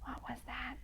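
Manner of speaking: breathy hushed whisper; frightened whisper from the monster. A narrator's reading. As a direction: whisper it, scared of the noise. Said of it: "whispered Smug".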